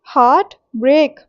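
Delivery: हार्ट and ब्रेक as two equally stressed beats. Shown as a demonstration. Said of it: "दोनों में ही equal stress जा रहा है". (हार्ट और ब्रेक, दोनों पर बराबर ज़ोर)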